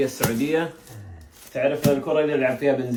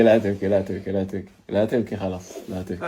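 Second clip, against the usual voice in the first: gentle soothing; 6 semitones lower than usual. Real, not acted. Comforting the crying boy. (تهدئة حنونة للطفل الباكي)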